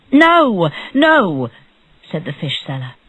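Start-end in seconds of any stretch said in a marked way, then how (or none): 0.1-1.5 high, loud objection; urgent protest. A narrator's reading. Fish seller stops the judge's sentence, protesting urgently. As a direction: break in to stop it.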